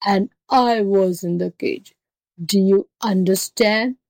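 slow, emphatic angry beast; enraged tiger. Acted. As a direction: spell it out as an exasperated tiger. Tiger figure explains angrily.

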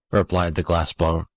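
ordinary delivery, nothing marked

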